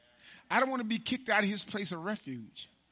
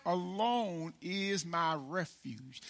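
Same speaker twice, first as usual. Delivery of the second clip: slow preaching; much slower than usual. Acted. Opens sermon slowly.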